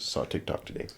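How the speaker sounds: whispered softly, as a joking afterthought; whispered aside. Real, not acted. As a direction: drop to a whisper for the repeat. Repeats line as whispered aside.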